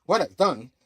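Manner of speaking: loud, high angry comeback; angry retort. Retold or imitated. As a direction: fire it back at him. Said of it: "And Spidey's like".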